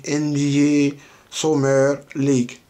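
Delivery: slow, careful English with a French-speaker's accent; English words in a thick Francophone accent; rough English accent. Real, not acted. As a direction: read the English name out slowly, imperfectly accented. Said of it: "mon accent anglais n'est pas trop propre".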